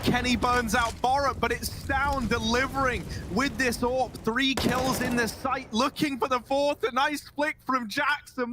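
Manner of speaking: rising, building hype call; excited commentary. Real, not acted. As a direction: lift the energy with every kill. Clutch round play-by-play climax.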